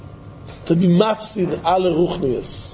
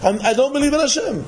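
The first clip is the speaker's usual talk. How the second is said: mock begging; 8 semitones higher than usual. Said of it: "He's begging".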